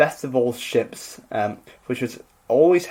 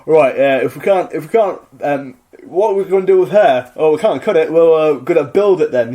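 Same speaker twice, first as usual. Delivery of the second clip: mock macho; 5 dB louder than usual. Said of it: "the toxic masculinity is like".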